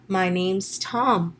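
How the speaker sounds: slow "My name's Tom", "name's" as one syllable; deliberate, drawn-out contraction "name's"; contracted "name's". Shown as a demonstration. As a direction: run "name is" into "name's". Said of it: "I'm using a contraction here".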